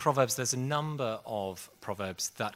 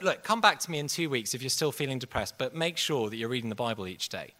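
firm instruction; 2 semitones higher, 5 dB louder, faster than usual. Retold or imitated. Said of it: "He just went".

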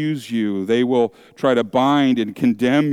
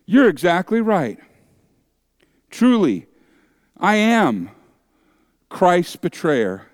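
humble confession. Retold or imitated. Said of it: "You say".

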